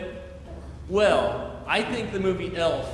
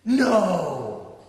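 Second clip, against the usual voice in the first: higher, slow comforting reply; reassuring crowd; 4 semitones higher than usual. Retold or imitated. The room comforting Buddy, slow, higher and reassuring. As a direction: soothe him like a friend who cares. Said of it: "They go".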